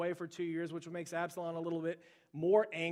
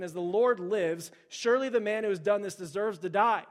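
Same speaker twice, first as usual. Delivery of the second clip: angry king; 2 semitones higher, 7 dB louder than usual. A narrator's reading. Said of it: "Then David's anger burned greatly".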